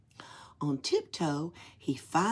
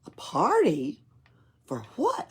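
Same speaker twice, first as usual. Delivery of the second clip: surprised; 4 semitones higher, 4 dB louder than usual. Acted. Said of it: "Oscar asked".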